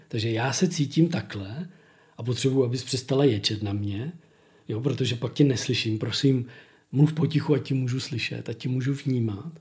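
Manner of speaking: calm, quiet demo of nonviolent talk; calm nonviolent phrasing. Shown as a demonstration. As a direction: model the calm request gently. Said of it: "neuslyšíte od narcisty".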